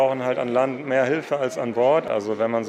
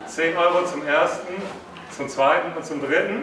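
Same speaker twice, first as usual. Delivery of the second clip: raised-pitch auction countdown; auctioneer's call; 4 semitones higher than usual. Real, not acted. Auctioneer closing a bid on a suitcase, auctioneer's call.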